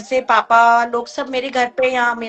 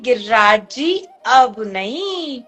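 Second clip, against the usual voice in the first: mother's pleading; slower than usual. Retold or imitated. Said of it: "हाथ जोड़ के बोलती है".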